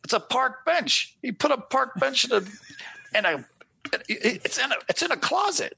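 high, laughing mock voice of his wife; wife unimpressed by a graphic novel, high mocking voice; mimicking his wife. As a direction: imitate her, baffled and amused. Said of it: "She's like".

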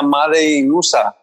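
slow "Made in usa", Spanish vowels; "Made in usa" as "mádei in úsa"; aunts' Spanglish. Retold or imitated. Quoting his aunts again, slow Spanish "Made in usa". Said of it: "Decía".

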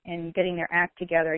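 ordinary talk, nothing marked

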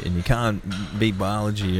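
light put-on American accent; quick jokey American accent. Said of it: "That was my American accent".

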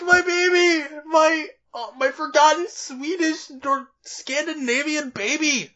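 high, slow, gushing wail; doting wail. Retold or imitated. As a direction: gush like a doting mother. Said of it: "'Cause I'm like".

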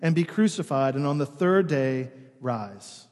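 measured gospel reading with pauses between phrases; solemn public Bible reading; scripture reading. Acted. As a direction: read scripture aloud to a congregation. Reads the gospel aloud to congregation.

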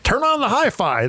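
put-on old person voice. Shown as a demonstration. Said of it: "that's my old person voice".

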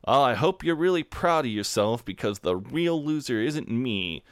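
mock yell after someone, no real volume; half-hearted imitation of a parting yell, dragging out the end; imitated yelling. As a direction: draw out the last words like a feeble parting jab. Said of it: "he's yelling at Jeff as Jeff is walking away".

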